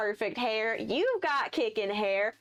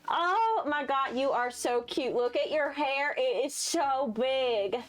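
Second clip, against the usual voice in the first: gushing Hayden; 2 semitones higher, slower than usual. Acted.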